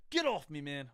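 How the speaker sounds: mock-annoyed, shrug off a pestering friend; mild annoyed brush-off. Student brushing off his friend at lunch, mildly annoyed.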